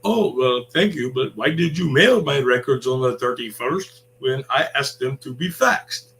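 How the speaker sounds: smart-ass reply. Retold or imitated. Customer mocking the call center agent, sarcastic and smart-ass. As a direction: needle the agent with fake politeness. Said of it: "being a smart ass".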